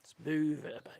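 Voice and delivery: breathy hushed repeat; whispered. Shown as a demonstration. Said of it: "That's what you gotta do".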